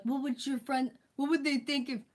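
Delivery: mock them as idiots; mocking stupid critic. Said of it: "this is how stupid they are".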